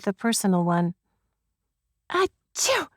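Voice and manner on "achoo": high-pitched achoo; spoken-out sneeze, pitched up; acted sneeze. A narrator's reading.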